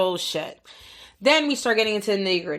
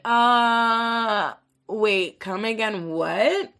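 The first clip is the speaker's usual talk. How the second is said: stunned double take; 3 semitones higher, much slower than usual. Retold or imitated. Stunned by his porn confession.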